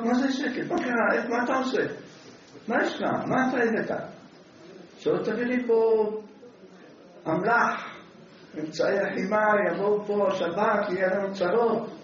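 a wife scolding her husband through the door, mock shouting. Wife yells at husband through the locked door, hammed-up shout. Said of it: "התחיל לצעוק".

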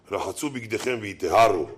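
a hint of a dull old sermon; old-time preacher. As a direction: drone it like a preacher from a century ago. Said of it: "דרשנים שלפני מאה שנה".

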